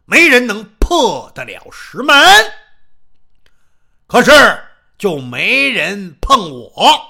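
a loud, boomy big man who talks as if down a barrel; booming muffled voice. Acted. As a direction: Xiong Rengang challenges Xiao Peng in a big booming voice. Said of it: "这熊仁刚一说话是瓮声瓮气".

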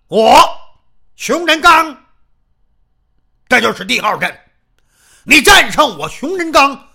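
a loud, boomy big man who talks as if down a barrel; booming muffled voice. Acted. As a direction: Xiong Rengang challenges Xiao Peng in a big booming voice. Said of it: "这熊仁刚一说话是瓮声瓮气".

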